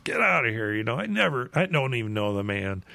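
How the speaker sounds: mildly heated retold protest; stronger denial. Peter denies Jesus a third time, mildly indignant. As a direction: brush the accuser off, acting it lightly. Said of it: "Peter even gets stronger every time".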